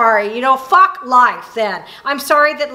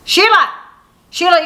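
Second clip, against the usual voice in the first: sharp, higher call across the room; 4 semitones higher than usual. Real, not acted. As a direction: call her name to grab attention. Teacher calls out to a student.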